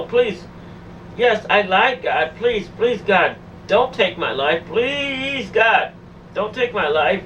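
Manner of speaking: re-enacting a frantic prayer for mercy; retold desperate outcry. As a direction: beg God for your life, short of screaming. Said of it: "I screamed out loud".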